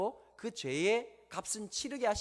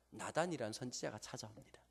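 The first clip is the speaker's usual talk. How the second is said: hushed suspenseful whisper; 7 semitones lower, 9 dB quieter than usual. Real, not acted. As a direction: lean in and whisper the reveal. Hushed reveal of the prophet. (긴장감 있게 속삭이며)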